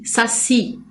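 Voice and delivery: "saci" with "si" as the stronger syllable; stress on SI. Shown as a demonstration. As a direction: lean on the final "si" of "saci". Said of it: "é mais forte".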